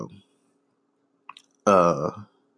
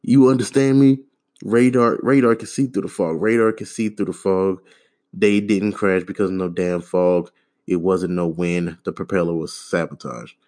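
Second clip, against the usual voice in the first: insistent preacher-like quote. Retold or imitated. Mocking Umar Johnson's video rant, insistent lecturing tone. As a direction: lecture like a man sure he knows the truth. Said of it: "He says".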